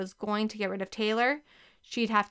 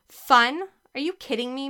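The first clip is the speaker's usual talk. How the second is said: higher, louder disbelieving outburst; incredulous cry; 4 semitones higher, 5 dB louder than usual. A narrator's reading. Girl protesting her strict teacher, incredulous cry. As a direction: scoff in disbelief at the idea. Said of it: "Mary Kate cried".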